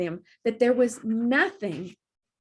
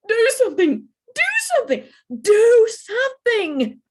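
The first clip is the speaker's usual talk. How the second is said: high, loud panicked shrieks; frantic shout; 14 semitones higher, 9 dB louder than usual. Acted. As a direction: beg for rescue at full volume. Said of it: "she shouted frantically".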